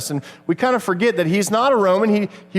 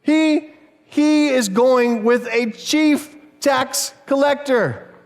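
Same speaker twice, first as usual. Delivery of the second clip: indignant crowd; 6 semitones higher, much slower than usual. Retold or imitated. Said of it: "And look what they mutter".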